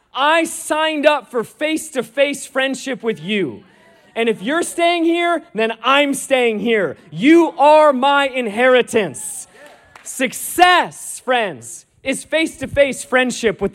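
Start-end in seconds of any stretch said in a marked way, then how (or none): 4.1-9.5 Moses refusing to go without God, shouting; impassioned shout. Retold or imitated. Preacher shouting Moses' plea.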